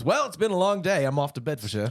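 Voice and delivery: lightly hammed British goodnight; weary bedtime line. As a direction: play someone calling it a day. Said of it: "My phrase was".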